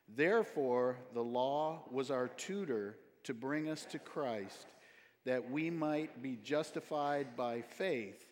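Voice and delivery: slow, measured scripture reading; deliberate, evenly paced recitation aloud; congregational verse recitation. Acted. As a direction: read it slowly for a group to follow. Leads congregation reading memory verse together.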